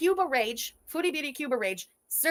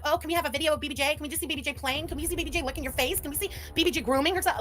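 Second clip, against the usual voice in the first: imitating rapid-fire pestering requests; pestering fans; 3 semitones higher, faster than usual. Mimicking followers begging for cat videos, pestering. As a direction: rattle off mock requests, one after another.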